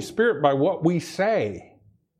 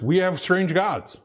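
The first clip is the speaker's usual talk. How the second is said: slow, leaning on "strange"; "strange" drawn out and weighted, slowed down; stress on strange; 2 semitones higher than usual. Shown as a demonstration. Preacher warning believers, weighting "strange". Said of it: "I emphasis on the word strange".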